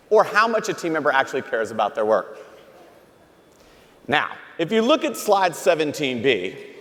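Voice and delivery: lightly put-on lecturing professor; hint of a dry academic lecturer. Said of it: "Let me get my professor voice on".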